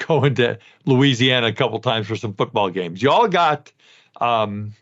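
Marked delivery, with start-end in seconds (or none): 3.0-3.7 a light Southern drawl on y'all; playful Southern drawl, y'all got. Shown as a demonstration. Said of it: "my Southern drawl".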